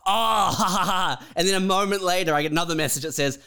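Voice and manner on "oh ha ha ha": high fake laughter, ha ha ha; sarcastic forced laugh, tossed off; mock laugh. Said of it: "And you're like".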